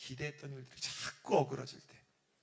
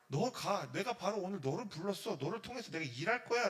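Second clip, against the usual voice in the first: God's urgent call; 3 semitones higher, 5 dB louder than usual. Acted. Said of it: "라고 얘기하는 겁니다".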